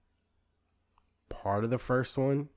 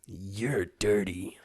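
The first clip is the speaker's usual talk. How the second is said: muffled, slow, menacing whisper through a mask; muffled Psycho Mantis voice; 4 semitones lower, much slower than usual. Retold or imitated. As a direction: speak slowly as if through a gas mask. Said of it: "I like this muffled voice".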